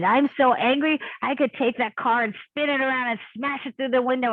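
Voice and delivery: heated, mildly hammed-up fury; retold anger. Retelling her own furious words.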